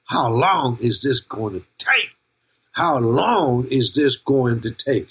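slow mock Indian accent; cartoon king with a put-on Indian accent; King Julian. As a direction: drag it out in a playful Indian accent. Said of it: "like King Julian and you keep saying".

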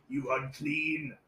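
imitating dad. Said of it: "He kept telling me how unclean I am".

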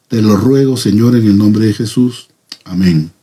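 earnest spoken prayer, unhurried and sinking at the close. Real, not acted. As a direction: pray sincerely before the study. Opens the study with prayer.

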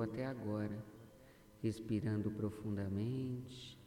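measured, deliberate meditation delivery with long pauses; guided affirmation. Acted. Guide leading a listener to see life's positive side, guided affirmation. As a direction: guide the listener phrase by phrase, letting each settle.

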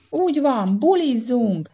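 high, loud party cheer; crowd shout. Acted. Monkeys cheering their chief, loud high shout. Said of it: "kiáltották".

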